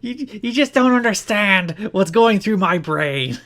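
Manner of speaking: high, slow, hammed-up wrestler voice; Raven voice. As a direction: drag it out like a wrestler who forgot his lines. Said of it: "Please do it in the voice".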